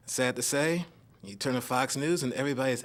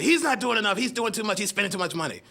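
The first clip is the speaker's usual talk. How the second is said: mock Tea Party complaint; 6 semitones higher than usual. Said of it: "the Tea Party comes up and say".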